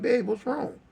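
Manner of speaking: high-pitched questioning woman; worried girlfriend. Retold or imitated. Baby mama seeing him crying, asking high. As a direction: imitate a partner asking what happened. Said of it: "So she like".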